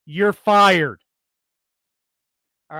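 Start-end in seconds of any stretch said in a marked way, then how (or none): 0.1-1.0 imitated firing line. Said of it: "looks at this lady and says".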